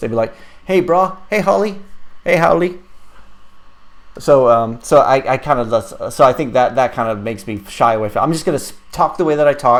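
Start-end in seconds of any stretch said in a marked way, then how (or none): 0.6-2.8 fake Hawaiian accent, pitched up. Mimicking soldiers who pretended to pick up the accent, fake hawaiian accent. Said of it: "pretend like they they were picking up the Hawaiian accent".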